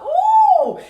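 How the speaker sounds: high held "ooh"; long high-pitched ooh of shock; startled ooh. Retold or imitated. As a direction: let out a high, drawn-out ooh. Reacting to the ugly wound.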